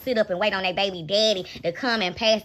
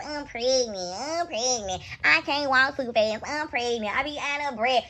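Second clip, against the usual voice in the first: soft mocking imitation of a whiny pregnant woman; mocking whine; 3 dB quieter than usual. Scene: vlogger mocking the woman's complaints, soft whiny imitation. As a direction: lightly mimic her complaining voice. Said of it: "Your voice getting on my nerve".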